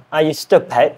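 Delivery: careful learner's British "stupid"; British accent attempt. Shown as a demonstration. Learner practising a challenge sentence, British accent attempt. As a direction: try the question in British English. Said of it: "I am learning British accent".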